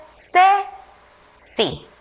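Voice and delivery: put-on slow, separate syllables read aloud for children; syllable drill. Shown as a demonstration. Teacher reading the C syllables to first graders. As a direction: say each syllable on its own. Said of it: "Leamos entonces".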